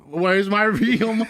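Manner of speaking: high, slow mock scream; drawn-out imitation of screaming, no real volume; retold scream. Sleepwalking son crying at mom, mock scream. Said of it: "screaming this at her".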